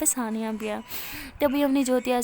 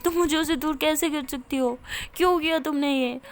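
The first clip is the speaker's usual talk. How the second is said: tearful reproach. Acted. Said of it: "ثانیہ بہت رونے لگتی ہے".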